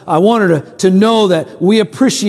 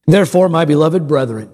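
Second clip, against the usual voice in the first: measured scripture reading; slow careful reading. Real, not acted. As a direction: read it out deliberately so all hear. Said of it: "read this slowly and carefully".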